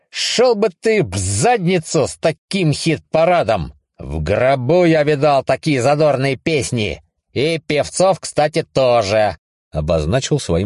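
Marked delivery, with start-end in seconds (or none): 0.1-9.4 angry retort. Acted. Angry rejection.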